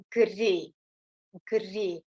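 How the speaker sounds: "gri" as one syllable, g and r together; root gri. Shown as a demonstration. Teacher repeats the root slowly for students. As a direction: say "gri" tightly, no vowel after the g. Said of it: "bunun kökü gri".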